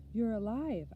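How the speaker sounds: high, elated cry of relief; joyful shout. A narrator's reading. Boy to the father he thought was dead, joyful shout. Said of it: "I shouted".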